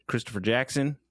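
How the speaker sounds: ordinary talk, nothing marked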